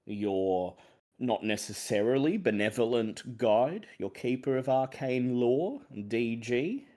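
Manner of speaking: measured, theatrical host intro with drawn-out phrases; deliberate show-opening delivery with rising list phrases; game master's opening. Acted. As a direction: usher listeners into an eerie adventure. Game master opens the session theatrically.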